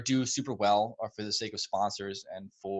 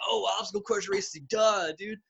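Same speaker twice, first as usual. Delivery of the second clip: high-pitched self-mocking "duh"; re-enacted sheepish dawning; mock realization; 9 semitones higher than usual. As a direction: play yourself catching on late. Retelling his sudden dim realisation.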